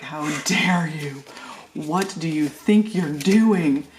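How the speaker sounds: slow, mock-offended little tyrant; indignant toddler. Grandma voicing the glaring toddler, slow and mock-indignant. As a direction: voice the baby's outraged glare, slowly. Toddler's glare voiced by the speaker.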